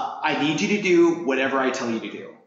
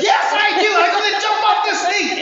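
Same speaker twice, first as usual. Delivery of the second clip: shouted, much higher and louder; fired-up shout; 6 dB louder than usual. Retold or imitated. Scared racer finally agreeing to jump, fired-up shout. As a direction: yell it like you suddenly believe you can. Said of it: "She's like".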